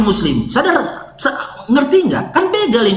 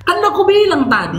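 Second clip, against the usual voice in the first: laughing; 8 semitones higher, faster than usual. Real, not acted. Exasperated laughing insistence.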